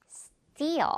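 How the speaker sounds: Steal with t like Korean 띠, long falling vowel; tense-t steal. Shown as a demonstration. Teacher models the word for learners, tense-t Steal. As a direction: say Steal with a tight t and drawn-out ending. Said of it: "이렇게 띠 발음이 난다는 거".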